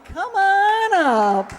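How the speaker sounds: loud, slow, high call to the back row. Real, not acted. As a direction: stretch it out to reach the back. Calling contestant up from audience.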